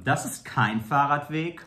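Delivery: mildly snooty German correction; lightly catty reproach; a little bitchy. Shown as a demonstration. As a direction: demonstrate a touch of bitchiness. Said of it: "say it a little bit bitchy".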